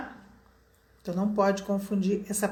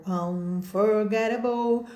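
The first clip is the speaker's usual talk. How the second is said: slow emphatic title; 2 semitones lower, much slower than usual. Shown as a demonstration. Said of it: "Por que que eu chamei de Unforgettable?".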